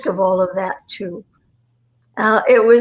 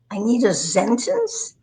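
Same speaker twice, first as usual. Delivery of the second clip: put-on German accent. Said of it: "I could do a German accent".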